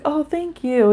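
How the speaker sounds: high, sweet thank-you; touched, retelling a thank-you; sweetly grateful. Retold or imitated. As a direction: lift the voice in gratitude. Thanking the kind neighbor, retold.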